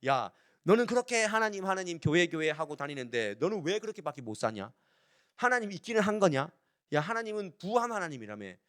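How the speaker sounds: taunting challenge, lifted in pitch at the start; lightly acted jeering of someone's faith; acted mockery. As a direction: needle a believer with scornful questions. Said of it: "하나님의 말씀이 조롱받는 것 같고".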